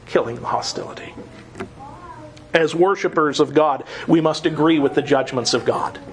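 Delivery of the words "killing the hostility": "killing" leaned on, the rest dropped low and soft; quiet echo. Shown as a demonstration. Preacher repeats scripture to congregation, quietly. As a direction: repeat "Killing the hostility" softly, dwelling on "killing".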